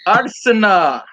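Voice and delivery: hammed-up attempt at a British accent; bad British accent. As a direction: call it out in a poor mock-British accent. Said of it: "your, your accent's so bad".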